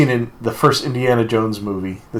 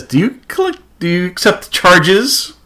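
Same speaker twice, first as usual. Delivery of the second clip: much higher, lightly sing-song mock operator; imitating an operator; 6 semitones higher than usual. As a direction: play a telephone operator asking about the charges. Mimicking the phone operator's question.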